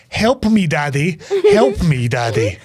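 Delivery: half-hearted mock cry for help; retold scream at moderate volume. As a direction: imitate a plea, each one falling away. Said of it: "just starts screaming".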